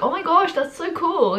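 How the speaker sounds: light mock thrill at a new fact; excited. Vlogger voicing her joy at learning. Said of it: "be like".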